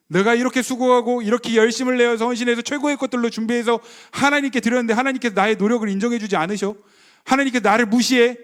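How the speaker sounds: a touch of aggrieved outrage; indignant grumble. Retold or imitated. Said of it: "라고 하면서 뭔가 마음에 화가 일어나고". (억울해하는 가벼운 분노)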